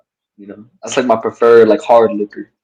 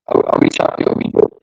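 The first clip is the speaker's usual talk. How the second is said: choppy, dropping call audio; laggy video call. Real, not acted. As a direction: voice breaking up over bad connection. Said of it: "you just sound laggy".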